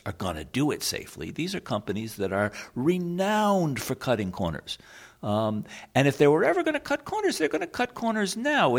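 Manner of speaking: speaking as an activist, rising and urgent. Pretend. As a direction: argue it like a worried activist. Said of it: "here I'm trying to talk in the activist voice".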